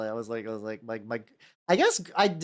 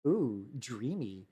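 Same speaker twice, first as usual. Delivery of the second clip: mock swooning; 3 semitones lower, 8 dB quieter, slower than usual. Acting someone swooning over his accent.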